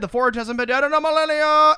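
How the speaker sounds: high, loud, rising comic wail; mock dismayed cry. They find the forge dead, mock dismayed cry. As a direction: climb into a stretched-out mock yell.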